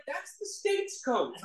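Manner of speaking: slow, high mock-serious delivery of the sponsor's line; deadpan punchline. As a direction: drag out the verdict slowly.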